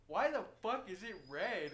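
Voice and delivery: loud, high, drawn-out alarm; hammed-up horrified shout; scared. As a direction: imitate a frightened, incredulous onlooker. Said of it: "And they were scared".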